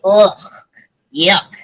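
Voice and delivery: normal talking voice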